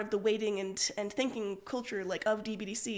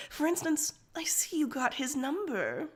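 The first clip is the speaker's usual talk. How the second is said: mean smile; 4 semitones higher than usual. Acted. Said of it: "Rose smiles meanly".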